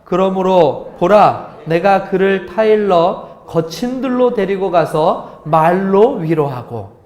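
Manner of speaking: slow, weighty reading of the verse; solemn scripture reading. Shown as a demonstration. Pastor reads scripture slowly and solemnly to the congregation. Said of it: "시작".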